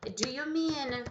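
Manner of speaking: "Do you mean?" said slowly and carefully; slow model phrase. Shown as a demonstration. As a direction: model the full question for the class. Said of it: "vai ver assim". ("Do you mean?" falado devagar, como modelo)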